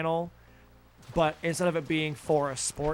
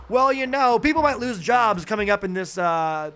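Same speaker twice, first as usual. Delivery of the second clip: mock finance pundit; 3 semitones higher than usual. Mocking CNBC commentators on the trade war, a cheery pundit voice. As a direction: sell the bad news as a good investment tip. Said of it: "same tone of voice as".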